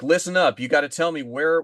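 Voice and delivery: lightly acted shout of command; mock command voice. Podcaster retelling how Conrad confronts the knight, mock command voice. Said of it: "he immediately deploys what he calls his command voice".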